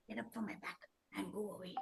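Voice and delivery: low, soft, quick grumble; hushed, sleepy brush-off; drowsy dismissal. Acted. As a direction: send the pest off from half sleep. Sleepy stick dismisses the crow.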